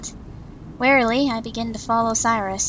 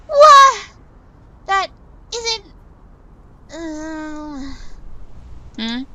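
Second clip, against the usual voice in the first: a sudden, much higher and louder "What?"; shocked outburst; 5 semitones higher, 6 dB louder, much slower than usual. Acted. Winter hears her mentor order her to drink, shocked high cry. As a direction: blurt it out in disbelief.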